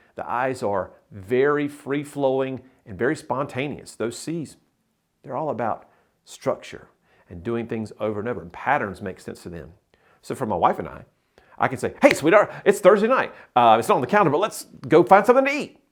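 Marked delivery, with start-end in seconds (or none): 12.0-15.7 very fast, rushed, high-pitched and loud delivery. Retelling asking his wife out on a Thursday night: imitating own past words, said really fast. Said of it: "I said that really fast".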